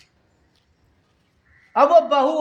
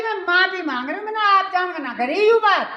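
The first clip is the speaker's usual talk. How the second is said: higher, quick apologetic wife; wife's voice; 5 semitones higher, faster than usual. Acted. Daughter-in-law apologising to mother-in-law, high and fast.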